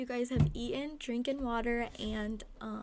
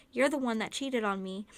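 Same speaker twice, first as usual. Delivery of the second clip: angry; 6 dB louder than usual. Acted. Narrator arguing with Kenny.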